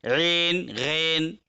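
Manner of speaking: ऐन, गैन with flattened "e", ayn as one "en" vowel; majhul, hypothetical reading. Shown as a demonstration. Teacher shows the unused reading, ऐन, गैन in majhul "e". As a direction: say ऐन, गैन on a single long "e". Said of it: "अगर मजहूल पढ़ते तो ऐसे पढ़ते".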